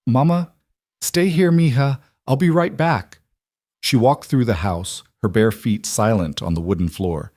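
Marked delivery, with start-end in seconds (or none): 0.1-3.2 reassuring. Acted. Mother reassures daughter.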